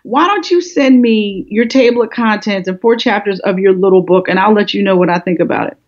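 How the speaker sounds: imitating a dismissive publisher; condescending attitude. Publisher brushing off an unknown author on the phone, condescending. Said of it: "hear somebody's attitude in the phone".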